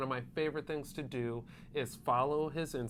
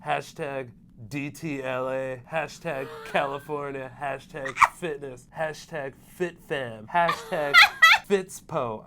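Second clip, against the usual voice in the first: stretched-out caption voice; Mohira impression; 6 dB louder than usual. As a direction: voice the hashtags like a mock L.A. bro. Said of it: "I'm gonna start voicing all of his captions".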